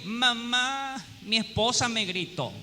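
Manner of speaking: quiet, complaining son running to his mother; whiny son. Retold or imitated. Husband telling his mother about his wife, mock complaint. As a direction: whimper it like a grown man tattling. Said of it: "es que".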